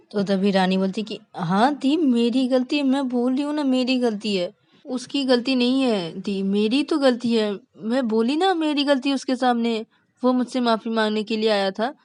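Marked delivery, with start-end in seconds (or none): 1.4-11.9 high, protesting self-blame; upset insisting. Acted. Rani tells her elder sister the fault is hers, upset insisting. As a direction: protest insistently in a raised pitch.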